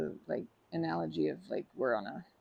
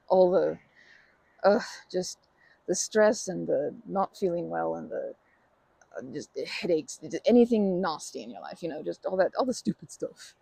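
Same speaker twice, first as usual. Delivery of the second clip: louder, pouring the bad stuff in; venting into the rock; 7 dB louder than usual. Real, not acted. Loading a pretend rock with a friend's troubles, louder venting. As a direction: dump every nasty thing into it. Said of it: "I'm just channeling all of the glut".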